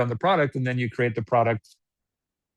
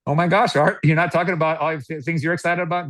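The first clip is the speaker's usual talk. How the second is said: mock surprise; 4 semitones higher than usual. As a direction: sound amazed he holds back. Prospect surprised in role-play.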